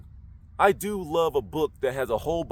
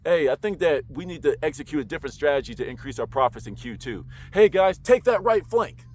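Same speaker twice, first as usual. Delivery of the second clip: confident command; 4 dB louder than usual. Shown as a demonstration.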